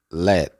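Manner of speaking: "let" with an unreleased T; silent final T. Shown as a demonstration. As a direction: end "let" just before the T sounds. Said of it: "pero no la pronuncia". ("let" con la T final muda)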